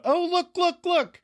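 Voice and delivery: high, eager look look; hushed thrill, pitched very high; excited spotting. Retold or imitated. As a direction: point her out, bursting with glee. Spotting Rachel at the party.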